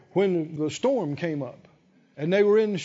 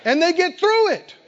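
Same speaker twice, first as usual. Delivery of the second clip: higher, louder, fiery sermon; full-force preaching; 9 semitones higher, 5 dB louder than usual. Acted. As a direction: preach it with rising fire.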